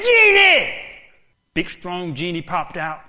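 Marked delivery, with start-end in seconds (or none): 0.0-0.7 loud, high summoning call. Acted. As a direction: shout for the genie. Man summons genie by banging.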